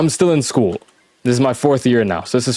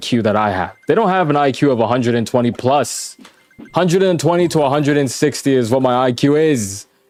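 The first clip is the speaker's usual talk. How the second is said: ordinary talk, nothing marked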